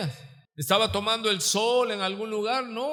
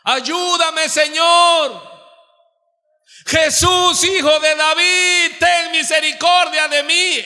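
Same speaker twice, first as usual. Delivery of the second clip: crying out; 7 semitones higher, 9 dB louder, slower than usual. Acted. Clamor del pueblo, gritando a Dios.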